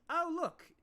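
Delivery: lightly acted condescending counselor; mock delight. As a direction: feign wonder, then look down on them. Rabbit counselor sneers at large visitor.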